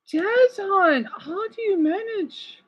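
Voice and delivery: high, slow, sympathetic wonder; tender amazement. Real, not acted. Streamer to a friend with four jobs, tender amazement. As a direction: ask high and slow, full of concern.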